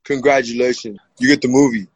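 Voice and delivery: lightly imitated low star voice; Sylvester Stallone. Movie star tells the fighter he is hired, lightly imitated low voice. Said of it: "Sly turns around and goes".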